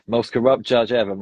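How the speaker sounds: a passing American accent impression; bad American accent. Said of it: "It's my bad American accent".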